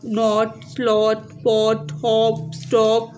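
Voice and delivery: "नॉट, स्लॉट, पॉट, हॉप, स्टॉप" each with a short o; short vowels. Shown as a demonstration. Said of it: "इनको इस तरह से हमने announce करना है".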